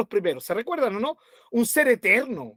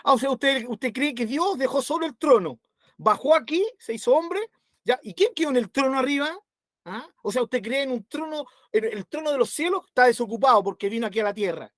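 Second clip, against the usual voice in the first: burla; 3 semitones higher than usual. Retold or imitated. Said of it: "Otros se burlan y dicen".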